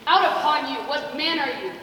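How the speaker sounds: indignant outburst. Acted. Nurse rebukes the mocking Mercutio.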